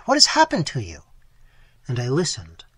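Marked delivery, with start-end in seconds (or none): 0.0-1.0 high, loud desperate crying out to a brother; anguished cry. Acted. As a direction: cry his name out in terror, much higher. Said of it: "I cried".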